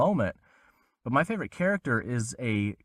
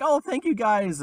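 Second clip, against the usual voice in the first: mock gushing thanks; 11 semitones higher, 3 dB louder than usual. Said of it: "I was like".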